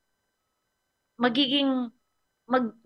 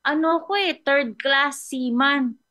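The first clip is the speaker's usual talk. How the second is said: stubborn seaman voice; 7 semitones higher than usual. Retold or imitated. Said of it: "Tapos sabi niya".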